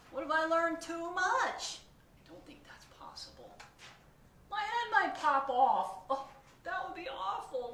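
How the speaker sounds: high, loud panicked questions; panicking pigeon. Acted. Pigeon panics about learning, high and loud. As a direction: spiral into kid panic.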